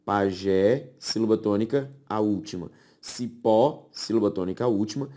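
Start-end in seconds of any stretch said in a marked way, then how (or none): 0.0-0.9 "Pajé" in two distinct beats, lower pitched; split into syllables. Shown as a demonstration. Teacher separates pajé to show the last stress, syllable by syllable. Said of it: "quando eu as separo". 3.0-3.9 "Cipó" in two distinct beats; split into syllables. Shown as a demonstration. Teacher separates cipó to show the last stress, syllable by syllable. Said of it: "quando eu as separo".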